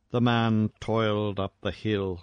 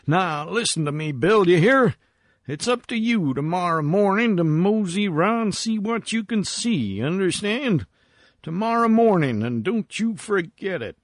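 high-pitched, insistent miner's voice; sharp calling; 7 semitones higher than usual. A narrator's reading. Miner giving himself orders for tomorrow morning, calling sharply. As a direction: lay down orders in a raised, swooping character voice. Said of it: "he called sharply".

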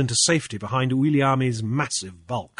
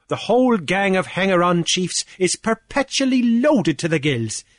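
pompous official, pitched higher, boasting; blustering Cornelius; 5 semitones higher, 3 dB louder than usual. Acted. Cornelius gloating to Grief over the fines, higher and pompous. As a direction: puff up like a petty island official lording it.

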